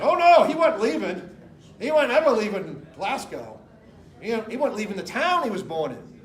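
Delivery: put-on loud, half-hearted Scottish accent, then laughing; a try at the Glasgow accent; a Glasgow money manager refusing to leave, weak Scottish accent. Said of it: "I can't do his accent".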